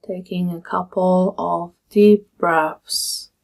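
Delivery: calm, measured meditation guide with long pauses; guided meditation. Acted. Meditation teacher leading listeners through a body scan, calm guiding voice. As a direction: guide them gently through settling, phrase by phrase.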